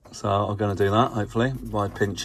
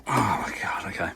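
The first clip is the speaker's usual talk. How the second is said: whisper. Real, not acted. Reacts under breath to progress.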